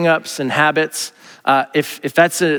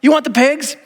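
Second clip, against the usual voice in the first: higher, easygoing permission; casual Jesus; 10 semitones higher than usual. Retold or imitated. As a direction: shrug it off. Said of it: "Jesus is like".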